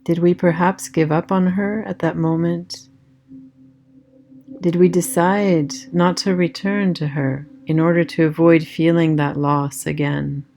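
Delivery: calm meditation voice with long pauses; guided meditation. Acted. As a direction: guide them gently inward, leaving space after each phrase.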